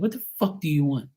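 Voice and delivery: exasperated retort without raising the volume; retold irritated demand. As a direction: re-enact an irritated reply. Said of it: "I said it just like that".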